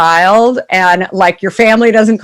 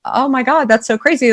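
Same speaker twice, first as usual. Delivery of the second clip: higher, hushed retold amazement; amazed; 5 semitones higher than usual. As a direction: marvel at it, pitched up.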